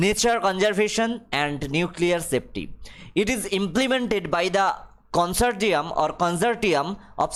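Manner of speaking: reads the English line very slowly, word by word; slow dictation reading. Acted. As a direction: spell it out for the class at dictation pace. Rereads the English text slowly. (ধীরে ধীরে ইংরেজি পাঠ)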